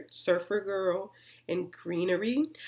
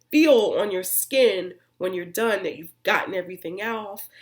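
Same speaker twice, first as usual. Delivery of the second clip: slipping into a light country accent on off; accidental country accent; 6 dB louder than usual. Real, not acted. Explaining to viewers how clean skin feels, slipped into a country accent. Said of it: "I don't know what accent that was".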